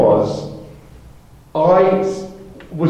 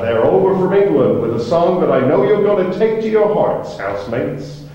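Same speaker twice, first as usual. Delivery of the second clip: TV host intro; 4 semitones higher than usual. Retold or imitated. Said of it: "like Ed Sullivan's for a band".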